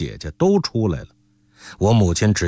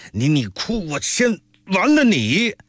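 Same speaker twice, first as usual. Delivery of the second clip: stammer, then a much higher furious threat; drunken threat; 9 semitones higher than usual. A narrator's reading. Drunk uncle threatening the sobbing maid with a knife, furious. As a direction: snarl a drunk man's threat at the crying girl.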